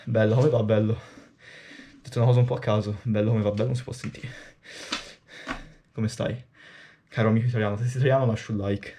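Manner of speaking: natural Italian speech, quick and casual at the end. Real, not acted. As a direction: talk to Italian viewers in your own Italian voice. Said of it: "That's my Italian voice reveal".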